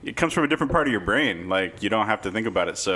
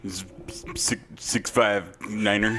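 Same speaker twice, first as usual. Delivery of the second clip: vintage announcer plug that falters into slow digits; faltering old radio call-in plug; old-timey radio voice. Acted. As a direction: begin like a radio host, then lose the thread. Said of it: "old radio timey voice".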